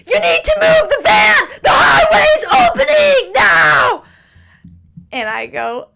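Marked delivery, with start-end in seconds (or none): 0.1-4.0 very high, loud angry shout; rude cop shouting. Retold or imitated. Cop ordering them to move the van, furious shout. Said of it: "This cop was so rude".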